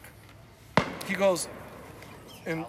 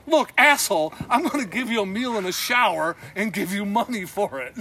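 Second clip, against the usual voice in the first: louder, annoyed put-down with a laugh creeping in; retold angry retort; 3 semitones higher, 6 dB louder than usual. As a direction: snap back at the pushy booker, half laughing. Manager snapping back at the booker.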